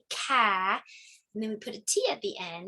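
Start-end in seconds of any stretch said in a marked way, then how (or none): 0.1-0.8 ca said as one blended syllable; blending sound. Shown as a demonstration. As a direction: blend ca for kids. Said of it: "like C with A".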